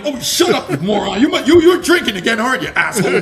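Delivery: teasing insult through laughter; affectionate mock scolding, laughing. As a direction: brush him off, laughing. Mock rebuff to Marine.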